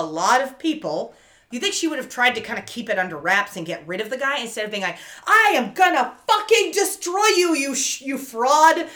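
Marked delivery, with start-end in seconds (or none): 5.3-8.9 high, loud imitated rage; hammed-up threat at full volume; mock furious yell. Laura threatens the fake Steele, mock furious yell. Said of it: "at full volume practically".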